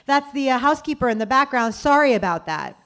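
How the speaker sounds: lightly voiced casual older man; mock apologetic board member. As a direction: play the sheepish guy owning up. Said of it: "one of the other guys jumps in and goes".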